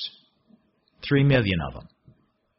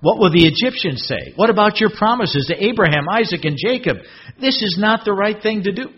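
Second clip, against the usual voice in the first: respectful appeal; 5 semitones higher than usual. Acted.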